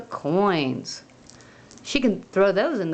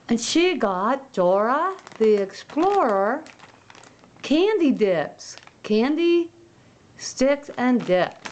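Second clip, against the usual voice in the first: excited reveal; 5 semitones higher than usual. Real, not acted. Reveals the special gift.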